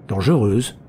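a touch of irritation, biting the word; the doctor repeats it, mildly annoyed; angry. Acted. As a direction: psychoanalyst echoing her word with understated anger. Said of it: "répéta le docteur d'un ton coléreux".

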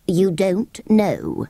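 slow, incredulous creature; astonished sand fairy. Acted. Sand fairy can't believe the children, slow incredulous voice. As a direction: drag out the disbelief.

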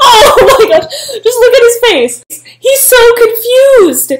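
high, loud, laughing. Real, not acted. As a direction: talk through giggles. Laughing at the confused man.

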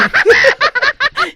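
high burst of laughter at dying; หัวเราะขำตัวเอง; rueful laugh. Real, not acted. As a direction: laugh at his own failure. Dies right at the start.

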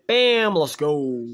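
drawn-out triumphant shout; slow hype shout. Real, not acted. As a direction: stretch it out like a victory cry. Celebrating the milestone.

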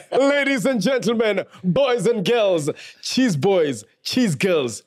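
announcer hyping the crowd, lightly voiced; grand entrance announcement. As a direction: introduce the guests like a ring announcer. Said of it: "Give it up for the one and only".

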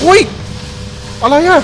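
very high, loud startled cry; startled shriek. Real, not acted. Gamer caught off guard by a jump scare, shrieking. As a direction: jolt out a shocked squeal.

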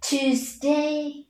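"Tuesday" drawn out with every sound complete; slow full syllables. Shown as a demonstration. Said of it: "đọc chậm rãi và đầy đủ cả âm tiết". (đọc "Tuesday" chậm rãi, đủ âm tiết)

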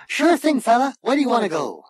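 very high, obliging machine voice; chirpy ship's computer. A narrator's reading. Computer asks Zaphod for a destination, chirpy. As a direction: chirp back eagerly. Computer eagerly takes the order.

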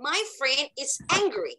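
"My friend is angry" run together without waiting. Shown as a demonstration. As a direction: say "My friend is angry" briskly as one phrase. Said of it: "เราพูดเร็วๆเลยค่ะ". (พูดต่อกันเร็ว ๆ ไม่ต้องรอเพื่อน)

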